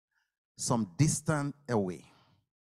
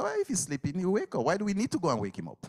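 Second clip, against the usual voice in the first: doubting disciples; 8 semitones higher, much faster than usual. Acted. Disciples' doubting reply voiced.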